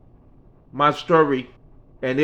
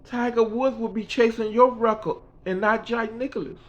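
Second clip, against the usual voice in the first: Mickey's voice; 9 semitones higher than usual. Retold or imitated. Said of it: "She said".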